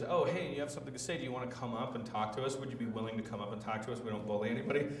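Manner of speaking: mild, soft-spoken reasonableness; polite invitation. Retold or imitated. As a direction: gently invite an audience member up. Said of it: "saying what I always say".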